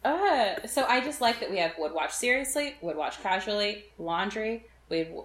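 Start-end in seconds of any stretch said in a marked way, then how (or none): 0.0-0.6 annoyed ugh. Retold or imitated. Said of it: "And I was just like".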